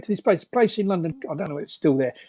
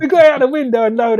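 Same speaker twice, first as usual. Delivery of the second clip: laughing through the words, louder; 7 semitones higher, 9 dB louder than usual. Real, not acted. Recalling the escape to the interviewer, laughing. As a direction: giggle as you tell it.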